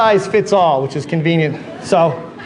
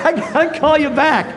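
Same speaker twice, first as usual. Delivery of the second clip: higher, laughing through an apology; giggling apology; 4 semitones higher than usual. Retold or imitated. Salesman apologizing to a client on the phone, laughing. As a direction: try to stay professional but crack up.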